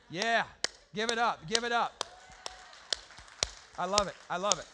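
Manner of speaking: loud, praising call-out; cheering. Real, not acted. Pastor cheering a student in the crowd, loud praise. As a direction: hype up the student who answered.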